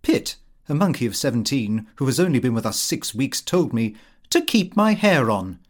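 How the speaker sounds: usual speaking voice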